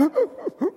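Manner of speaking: high-pitched mock sobbing gasps; imitated child's panic noises. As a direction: imitate a panicking little kid's sputters. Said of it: "And now he's got".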